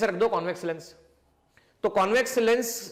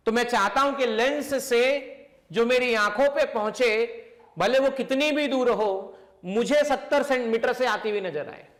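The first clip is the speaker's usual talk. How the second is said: speaking slowly; 2 semitones higher than usual. Shown as a demonstration. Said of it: "slowly बोल रहा हूं".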